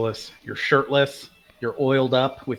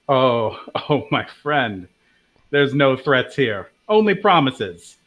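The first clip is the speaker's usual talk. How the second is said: menacing; 3 dB louder, slower than usual. Acted. Drow noble menaces goblins.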